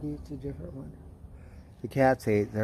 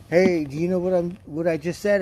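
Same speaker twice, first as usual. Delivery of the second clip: imitating the boss; 6 semitones higher, 5 dB louder than usual. Boss quoted in work story.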